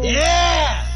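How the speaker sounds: high, loud cheer that cracks; voice-cracking cheer. Real, not acted. Cheering with her friend, a cracking high whoop. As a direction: whoop so hard the voice breaks. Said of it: "a voice crack version of it".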